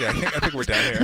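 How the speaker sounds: high laughing agreement. Real, not acted. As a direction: say it while cracking up. Laughing agreement after story.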